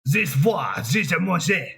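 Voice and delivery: French-sounding fake German; mock-German nonsense sliding into French; botched German accent. Another try at the dictator, botched German accent. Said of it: "that also sounds French".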